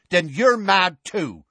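high, loud, slow disgust. A narrator's reading. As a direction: write them off with stretched words. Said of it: "said Seamus in disgust".

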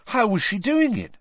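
quick high question; eager, immediate question; at once. A narrator's reading. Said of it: "said Harry at once".

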